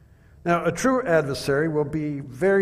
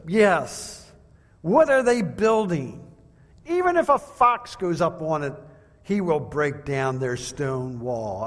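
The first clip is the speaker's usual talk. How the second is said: jeering. Retold or imitated. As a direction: belittle their wall with scorn. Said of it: "making fun of is contagious".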